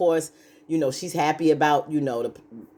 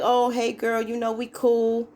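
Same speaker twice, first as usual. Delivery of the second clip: fake friendly girl voice; 7 semitones higher than usual. Mock friendly greeting.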